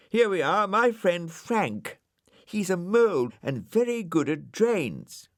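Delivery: fussy Brian fretting about the drain; Brian's voice. A narrator's reading. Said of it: "Brian introduces Frank".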